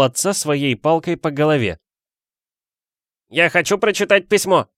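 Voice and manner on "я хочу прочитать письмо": high loud spoiled demand. A narrator's reading. Dudley to his father, loud spoiled demand. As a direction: insist like a spoiled child. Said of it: "громко заявил он".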